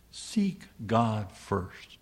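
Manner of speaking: Seek God first, very slow and deliberate; each word set down slowly; slow emphasis. Shown as a demonstration. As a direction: spell out the command word by word. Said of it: "Jesus says".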